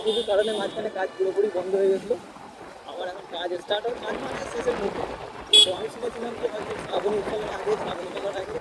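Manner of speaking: muffled voice inside a helmet; talking through a motorbike helmet. Real, not acted. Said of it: "helmet পরে আছি আমি, তো ভয়েসটা হয়তো ঠিকঠাকভাবে নাও পেতে পারো".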